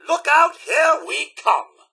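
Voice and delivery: high, slow, drawn-out battle call; rallying cry. Acted. Butler charging in beside his sir, rallying cry. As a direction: call out a gleeful warning.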